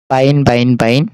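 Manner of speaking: বাইন said with a clear v-like start and long ai; pronunciation demo. Shown as a demonstration. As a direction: repeat বাইন carefully for the class. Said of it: "এখানে উচ্চারণ দেখাচ্ছে". (বাইন শব্দের সঠিক উচ্চারণ)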